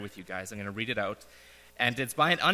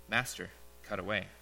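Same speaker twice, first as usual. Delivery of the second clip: low whisper; 4 semitones lower, 8 dB quieter than usual. A narrator's reading. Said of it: "whispering low".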